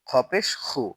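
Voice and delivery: খু with a short u; no stretch. Shown as a demonstration. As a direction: cut the vowel of খু short. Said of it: "টান হবে না".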